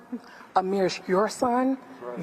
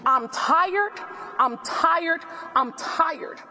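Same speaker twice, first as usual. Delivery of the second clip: Southern country accent; 5 semitones higher, much slower than usual. Real, not acted. Grieving mother tells reporters she is tired, Southern country accent. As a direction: let the Southern country accent come through, weary and raised. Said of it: "with my Southern country accent".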